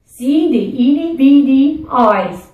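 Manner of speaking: loud, high playful Newfie; Newfie accent. Shown as a demonstration. Host drills viewers in Newfie talk, loud Newfie accent. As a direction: chant it out in a hearty Newfie accent. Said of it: "talk like a Newfie".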